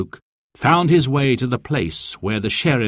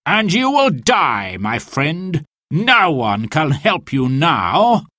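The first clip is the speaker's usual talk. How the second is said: a lightly voiced villain threat, slow at the end; a touch of a gloating knight; menacing villain; 4 semitones higher, slower than usual. Sir Guy threatens Robin in the forest, a mild gloating menace.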